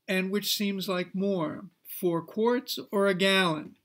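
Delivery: gallon lifted and leaned on at the end of the question; stress on gallon. Retold or imitated. Counselor to student, stressing gallon. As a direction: put weight on the word gallon as the biggest choice. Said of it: "I would intentionally emphasize the word gallon".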